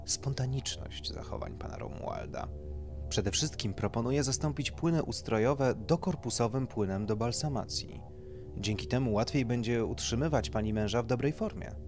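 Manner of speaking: doctor explaining procedure. Acted. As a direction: explain it like a consultant to a client.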